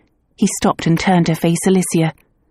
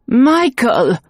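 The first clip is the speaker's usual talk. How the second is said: higher sudden cry of a name; scream; 6 semitones higher than usual. Acted. Clairvoyant screaming the name, startled. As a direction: shout the name in shock. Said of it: "the woman screamed".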